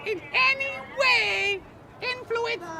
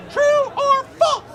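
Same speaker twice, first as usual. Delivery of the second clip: slow, loud quiz question; game show host; 2 semitones higher, 7 dB louder, slower than usual. Acted. Quiz host asks slowly, loud.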